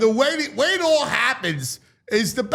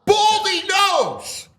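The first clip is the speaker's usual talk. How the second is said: slow reverent praise; 9 semitones higher, slower than usual. Real, not acted. Praising colleague's wisdom.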